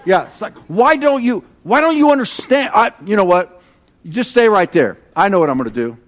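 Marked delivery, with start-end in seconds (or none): 0.1-3.6 exasperated and rising higher; mock exasperation. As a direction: throw up your hands in playful disbelief. Mock frustration at unbeliever.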